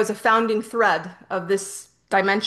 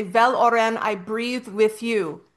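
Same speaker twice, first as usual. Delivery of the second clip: invocation phrase. Retold or imitated. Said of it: "When I say".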